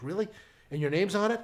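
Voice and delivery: put-on eager elderly uncle, voice lifting; excited uncle. Uncle hearing his nephew's show will air, excited. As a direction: imitate an excited, hopeful question. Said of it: "he gets all excited".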